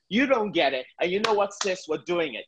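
high, urgent and driven; frenetic energy. Shown as a demonstration. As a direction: push it with adrenaline. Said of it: "an even more frenetic energy".

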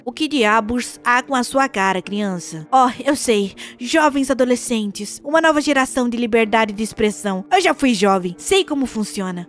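voz grave e séria de vizinho esquisito; voz do Charley. Acted. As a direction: um vizinho rabugento e desconfiado. (voz grave de homem rabugento)

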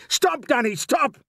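high, loud urgent warning shout. A narrator's reading. Father warning his son at the pit, shouting. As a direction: shout to halt him at once. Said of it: "he shouted".

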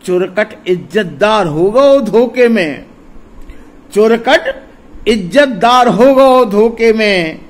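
slow, drawn-out verse recital; ringing, lilting poetry delivery; poem recitation. Acted. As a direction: declaim the refrain with long stretched words. Recites verse refrain before talking.

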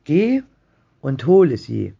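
high, urgent, insistent command; excited cry. A narrator's reading. Wife orders husband to wish, high and agitated. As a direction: cry it out, pitch leaping with excitement. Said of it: "schrie seine Frau zitternd vor Aufregung".

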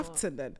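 teasing British Lieutenant, lef-ten-ant. Shown as a demonstration. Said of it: "Y'all heard a new word today?".

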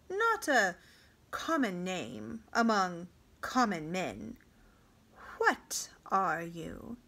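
a lightly voiced king, slow and probing; slow, searching king's voice. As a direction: question him slowly like a shrewd king. King questions the boy.

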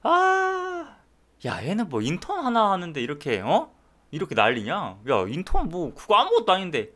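lightly acted senior doctor scoffing; scornful senior. Senior doctor watching an intern's videos, mildly hammed-up scorn. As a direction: open on a high sigh, then mock-complain. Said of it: "이런 말 하겠죠?".

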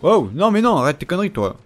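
sudden high yelp of protest; loud startled no; startled shout. Real, not acted. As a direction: cry out at the enemy to stop. Startled by an enemy attack.

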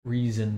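"reason" said as the everyday word; pronounced like reason. Shown as a demonstration. Streamer correcting a viewer's name, "reason" pronounced plainly. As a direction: say "reason" with a long ee first. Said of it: "is pronounced like reason".

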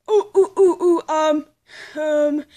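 loud eager ooh ooh; desperate to be picked; eager hand raise. Acted. Eager to answer in class.

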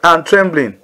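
slow, weighted "fear and trembling"; slow emphasis. Shown as a demonstration. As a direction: lean slowly on "fear", every word weighed. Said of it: "Say that with me".

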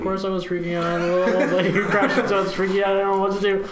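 high, loud panicked rush; freaking out. Retold or imitated. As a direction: babble it in a frantic panic. Freaking out about the crash.

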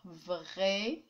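"Vraiment" broken in two, vrai, then ment; split into syllables. Shown as a demonstration. Teacher showing how to divide a word, syllable by syllable. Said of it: "diviser le mot comme ça".

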